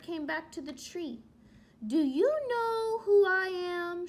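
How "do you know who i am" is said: louder, gently teasing mother bird; mother asking her baby fondly. Acted. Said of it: "she said to her baby bird".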